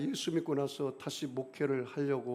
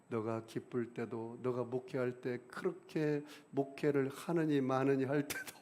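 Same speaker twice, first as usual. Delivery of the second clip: tender voice of Jesus; 2 semitones lower, 4 dB quieter than usual. Retold or imitated.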